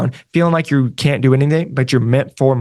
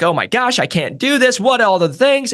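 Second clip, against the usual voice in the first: higher-pitched imitation of scared nurses; mock terrified; 7 semitones higher than usual. Coach mimicking nurses scared to switch careers, mock terrified. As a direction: act out a mild, high panic. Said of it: "absolutely terrified. They are scared".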